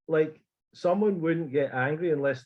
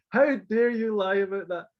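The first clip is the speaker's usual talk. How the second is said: shouting at them; 6 semitones higher than usual. Retold or imitated. Telling off the stewards who lied, angry yell. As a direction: spit out the insult at them. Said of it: "shouting at them".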